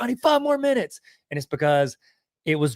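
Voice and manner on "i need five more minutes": lightly voiced high-pitched whiny plea; a hint of a begging movie character; playful high pleading quote; mock Seth Green pleading. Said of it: "Seth Green in that movie where he was like".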